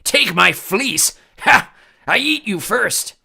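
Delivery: high, loud, slow monster roar with a laugh; roaring cyclops. A narrator's reading. Cyclops mocking Percy before eating him. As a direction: gloat hungrily like a giant.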